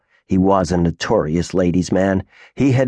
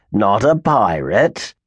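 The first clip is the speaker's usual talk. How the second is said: growled; slower than usual. Acted. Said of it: "growled Grimes".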